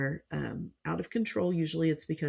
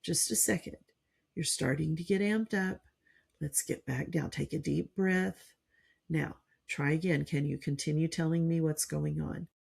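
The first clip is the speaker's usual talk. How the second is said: soothing parent demo. Shown as a demonstration. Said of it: "and like".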